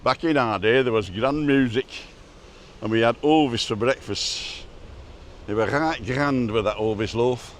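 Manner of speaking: lightly voiced grumpy old man; old man rant. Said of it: "We're gonna do the old man rant".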